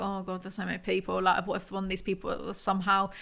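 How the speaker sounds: hushed, worried inner voice; anxious inner thought. Retold or imitated. To herself on the cramped flight, hushed and anxious. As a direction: murmur the fear under your breath. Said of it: "that set me off a little bit".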